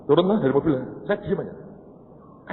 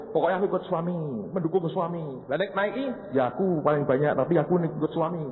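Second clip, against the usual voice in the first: lightly voiced wife; 5 semitones higher than usual. Wife quoted, hedging.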